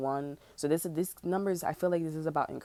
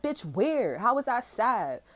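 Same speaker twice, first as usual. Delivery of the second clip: incredulous retort; 7 semitones higher, 4 dB louder than usual. Retold or imitated. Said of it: "I'm like".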